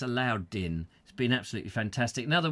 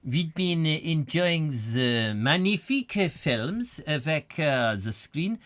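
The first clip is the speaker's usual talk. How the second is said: mock French accent. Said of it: "even more French than before".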